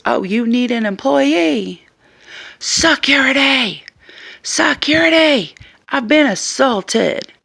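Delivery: high, loud, slow mocking cry for security; angry shopper fakes an assault, high loud mock cries; shrill mock yelling. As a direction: ham up a fake victim calling for help. Woman mockingly yells for security.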